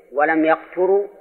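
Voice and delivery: يقتروا read yaqturū; second of three readings. Shown as a demonstration. Teacher lists three readings, here يقتروا as yaqturū. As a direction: say يقتروا with "ya" first and "tu" after. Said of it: "فتكون قراءات على هذا".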